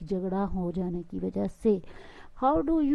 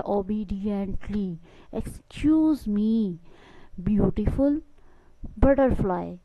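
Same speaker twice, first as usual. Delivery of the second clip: "Obediently", "excuse me", "beautiful", "butterfly" each said very slowly, syllable by syllable, with a clear push on the stressed syllable; word stress demo; much slower than usual. Shown as a demonstration. Teacher slowly showing a class the word stress. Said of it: "ये stress में आता है".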